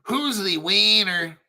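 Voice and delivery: slow Latin American accent on wiener. Shown as a demonstration. Explaining his pronunciation to viewers, Latin American accent. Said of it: "I'm using my Latin American accent".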